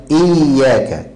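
إياك with a firmly held double ي; slowed إياك with a strong shadda on ي; doubled ya. Shown as a demonstration. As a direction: press the ي of إياك, "iyy-yaaka". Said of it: "الياء بدون تشديد".

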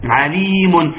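"عليم" pronounced alee-mun with the n sounded; stretched "عليم" ending on a clear n; audible final noon. Shown as a demonstration. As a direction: show the tanween at the end of "عليم". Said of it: "بتنتهي بنون".

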